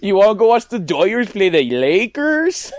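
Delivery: put-on clumsy Cholo accent invitation; bad Cholo accent. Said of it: "That was a really bad, really bad accent".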